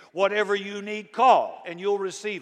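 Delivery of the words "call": a loud sudden burst on call; preacher's peak shout. Acted. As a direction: fling the word out. Preaching climax.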